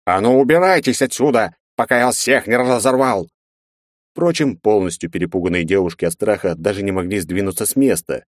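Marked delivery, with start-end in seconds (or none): 0.1-3.3 raised, furious troll roar. A narrator's reading. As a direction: roar them out of the room. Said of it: "он проревел".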